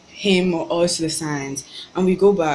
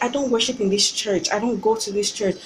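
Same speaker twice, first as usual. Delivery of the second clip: inner indignation; 4 semitones higher than usual. Retold or imitated. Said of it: "In my mind, I'm like".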